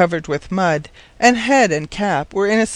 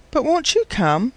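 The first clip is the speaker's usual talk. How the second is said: high, pleading ask; pleading question; 7 semitones higher than usual. A narrator's reading. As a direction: urge him gently. Maid pleading with professor.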